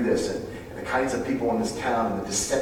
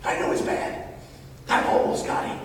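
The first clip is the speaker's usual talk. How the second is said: hushed, breathy plea for one more day; tender whisper; 5 dB quieter than usual. Pretend. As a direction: whisper like a parent pleading for time. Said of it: "the heart of God that says".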